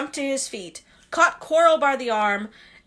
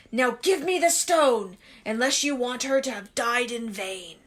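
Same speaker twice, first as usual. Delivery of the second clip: a hint of a cold, menacing villain; lightly voiced Voldemort. Voldemort taunting the boy, cold and menacing.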